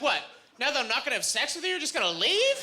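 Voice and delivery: high, indignant protest rising on the question; mock upset. Comic retelling of being left at the bar, mock upset. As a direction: act out hammed-up outrage, quick and climbing. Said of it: "I got really upset".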